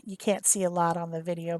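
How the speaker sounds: usual speaking voice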